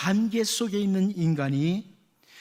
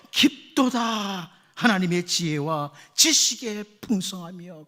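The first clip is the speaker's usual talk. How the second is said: awed slow exclamation; slower than usual. Shown as a demonstration. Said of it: "그 바울의 입에서".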